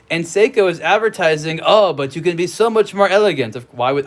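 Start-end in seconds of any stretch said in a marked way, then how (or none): 1.6-3.6 light mock French accent; put-on French lilt, lightly done. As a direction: play the elegant advertiser with a touch of French. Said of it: "they would have a French accent".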